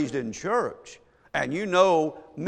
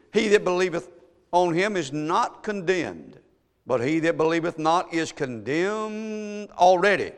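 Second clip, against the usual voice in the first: preached scripture reading; 2 semitones higher than usual. Acted. Preacher reading the verse on condemnation, emphatic preached reading. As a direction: proclaim the verse, stretching the weighty word.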